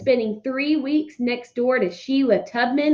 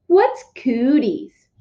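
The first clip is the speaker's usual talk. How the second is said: put-on Fudge's kid voice; 3 semitones higher, much slower than usual. Fudge asks again.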